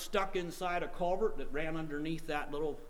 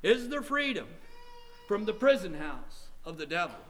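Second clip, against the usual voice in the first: insistent questioning; 3 semitones higher than usual. Real, not acted. Preacher repeating tonight's question, more urgent. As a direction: press the question harder.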